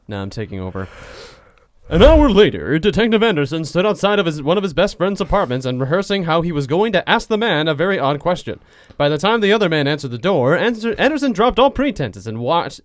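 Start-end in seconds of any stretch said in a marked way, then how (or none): 1.9-12.8 lightly voiced newsreel announcer; a hint of forties announcer; old newsreel. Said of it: "a nineteen forties newsreel announcer".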